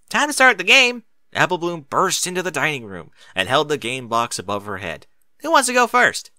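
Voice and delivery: loud, high excited filly; excited shout. Acted. Applebloom bursts in with the game box, excited shout. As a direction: burst in yelling with glee.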